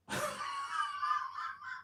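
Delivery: thin, very high laugh; high-pitched drawn-out laugh; high squealing laugh. Real, not acted. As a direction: squeal with amusement. Laughs after reading the list item.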